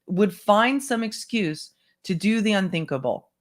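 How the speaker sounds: measured first-person narration; memoir read-aloud. Acted.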